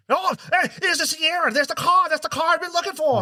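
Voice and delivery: high, chirpy put-on voice; mock cheerful discovery. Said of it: "She's like".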